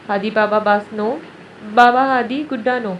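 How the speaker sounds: put-on slow toddler babble, slow; a small boy insisting, slowly; lightly voiced toddler whining. Toddler protesting.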